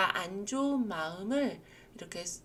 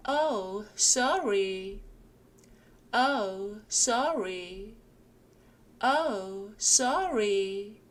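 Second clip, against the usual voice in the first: "Oh, sorry" said clearly and evenly; repeat drill; 3 dB louder, much slower than usual. Shown as a demonstration. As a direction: drill it for learners to copy. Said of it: "저와 함께 읽어보실게요". (또박또박 따라 읽기)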